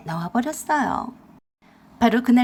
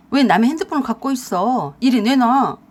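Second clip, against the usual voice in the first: husband barking to hand it over, louder; demanding his phone back, raised voice; angry demand; 5 dB louder than usual. Acted. Husband demanding his phone from wife, louder and angry.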